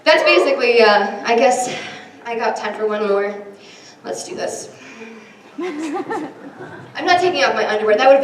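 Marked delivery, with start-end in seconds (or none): 5.6-8.0 laughing refusal. Real, not acted. Joke refusal to the audience.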